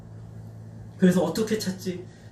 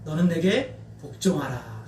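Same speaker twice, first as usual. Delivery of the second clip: lower, slow, soft divine command; God commanding; 4 semitones lower, 4 dB quieter, slower than usual. Retold or imitated. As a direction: speak as God, grave and slow. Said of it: "라고 말씀하세요". (낮고 느린 하나님의 명령)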